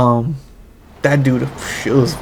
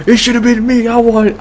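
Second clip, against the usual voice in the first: high, loud mock outrage, jealous; excited disbelief; 9 semitones higher, 5 dB louder than usual. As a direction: squeal it like you missed the fun. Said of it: "and I was like".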